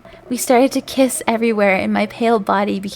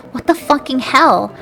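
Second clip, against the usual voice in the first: angrily; 4 semitones higher, 3 dB louder than usual. Acted. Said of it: "I asked angrily".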